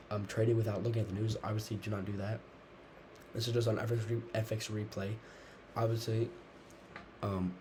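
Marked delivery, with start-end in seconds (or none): 3.3-7.5 talking through chewing gum. Real, not acted. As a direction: gum in the mouth while speaking. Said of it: "I'm talking weird with the gum in my mouth".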